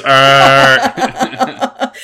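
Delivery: flat robot groan; monotone voice. Shown as a demonstration. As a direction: drone it with no pitch. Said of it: "In monotone voice".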